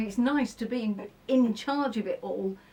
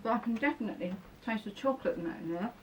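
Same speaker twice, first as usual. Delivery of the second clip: quick and soft, mouth still full; 6 dB quieter, faster than usual. Real, not acted. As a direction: talk through a bite of food. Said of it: "talking with my mouth full".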